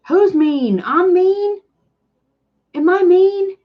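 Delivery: high, loud, indignant disbelief; Who's mean, I'm mean, am I mean, rising in alarm; shocked question. Real, not acted. A viewer's comment shocks the vlogger, high, loud disbelief.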